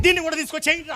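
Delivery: mock call. Pastor mocks, calls to helpers.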